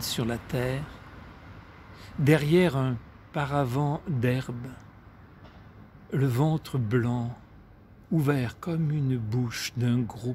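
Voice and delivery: measured recital with long pauses between phrases; poetry reading. A narrator's reading. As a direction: let each image settle before the next. Reads a poem aloud.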